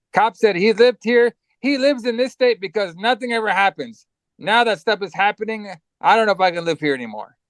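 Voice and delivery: high-pitched, put-upon griping; mock complaining cop. Host retelling the small-town cop's excuse, mock complaining.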